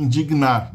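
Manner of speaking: indignar slowly, as in-dig-nar; slow syllable split. Shown as a demonstration. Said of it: "A gente não tem um ataque gnar".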